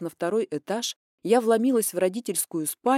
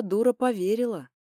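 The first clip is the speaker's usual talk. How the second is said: ordinary delivery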